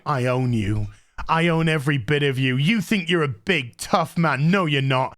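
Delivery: lightly voiced low, menacing police chief; mock domineering chief. Police chief owning the sergeant in his face, mock domineering.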